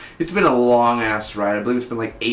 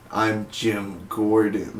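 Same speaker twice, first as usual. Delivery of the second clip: Jim Gordon voice; 2 semitones lower, 4 dB quieter, much slower than usual. Retold or imitated. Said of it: "have Jim Gordon's voice".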